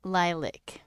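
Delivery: second syllable reduced to "lik"; own pronunciation. Shown as a demonstration. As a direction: say lilac like "lie-lick". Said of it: "I say".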